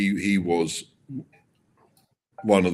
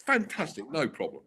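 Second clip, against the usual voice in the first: breezy Max; 10 semitones higher than usual. Retold or imitated. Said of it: "And Max goes".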